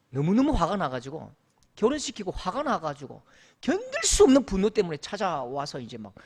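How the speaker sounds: normal talking voice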